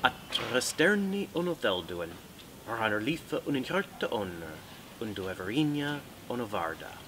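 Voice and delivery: measured recital of an Elvish blessing; Elvish accent. Shown as a demonstration. Author reciting a blessing from the elves for the interviewer, Elvish accent. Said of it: "I have a horrible Elvish accent".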